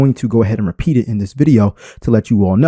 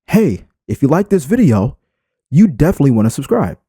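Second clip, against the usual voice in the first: caring delivery; 3 semitones higher than usual. Shown as a demonstration. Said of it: "but if I say".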